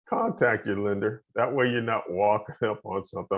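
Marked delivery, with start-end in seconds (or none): 1.3-3.4 real chuckle breaking into the words; amused, a small laugh mid-sentence. Real, not acted. Lender amused by the picture on the slide, laughing. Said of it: "I'm laughing".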